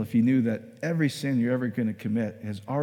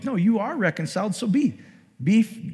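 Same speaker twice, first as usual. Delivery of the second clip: raised pitch, insistent; emphatic correction; 6 semitones higher than usual. Acted. Preacher voicing Paul correcting his readers, insistent. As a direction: set them straight with a higher, emphatic voice.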